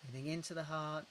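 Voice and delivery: slow, gentle guide breathing out; gentle breathing cue. Shown as a demonstration.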